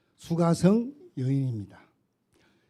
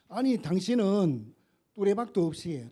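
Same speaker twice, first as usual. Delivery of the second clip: a hint of the Samaritan woman scoffing, slightly higher; mocking; 4 semitones higher than usual. Samaritan woman scoffs at Jesus, mild mock sneer. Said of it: "비웃는 거예요".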